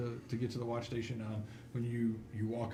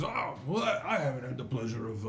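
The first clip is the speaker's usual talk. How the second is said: lightly voiced, sociable constable; courteous dwarf constable; 2 semitones higher than usual. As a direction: open an introduction grandly. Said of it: "he says".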